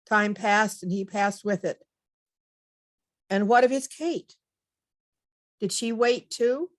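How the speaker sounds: measured recital, pausing after each line; comic poem reading. Acted. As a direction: read rhyming verse aloud as a little tale. Continues reading the rhyming poem.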